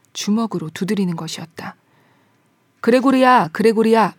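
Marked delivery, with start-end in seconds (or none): 2.8-4.1 louder, raised-voice call of a name; father calling out. A narrator's reading. Father at the side door calling his son, calling out. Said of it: "아버지가 소리쳤다".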